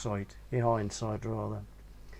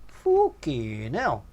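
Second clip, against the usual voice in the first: much higher, hammed-up caricature of a big greedy woman; Godzilla's voice; 12 semitones higher, 3 dB louder than usual. Big woman hearing money mentioned, hammed-up high voice. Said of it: "said Godzilla".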